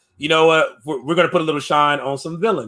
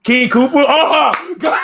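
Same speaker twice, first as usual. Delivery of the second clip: disbelieving; 10 semitones higher, 5 dB louder, much slower than usual. Real, not acted. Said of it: "incredulous reaction".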